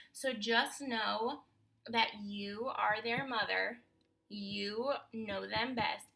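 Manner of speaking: slow and sincere to other moms; heartfelt slow encouragement to struggling mothers; slow reassurance. Real, not acted. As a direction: reassure them slowly, word by word.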